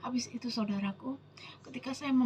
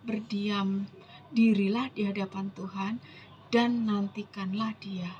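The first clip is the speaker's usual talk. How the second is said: solemn scripture reading; 3 semitones lower than usual. Acted. Preacher reading God's promise to the congregation, solemn scripture reading. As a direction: read the verse out deliberately.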